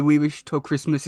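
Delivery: normal talking voice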